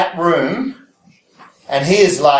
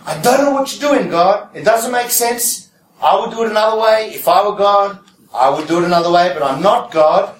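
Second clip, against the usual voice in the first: voicing Habakkuk; 4 semitones higher than usual. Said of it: "Habakkuk is classic".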